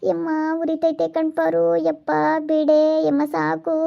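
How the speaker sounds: slow, drawn-out cries to stop; pained wailing plea. Acted. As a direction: wail as the treatment stings. Acted cry to stop the burning. (ನೋವಿನಿಂದ ಕೂಗಿಕೊಳ್ಳುತ್ತಾ)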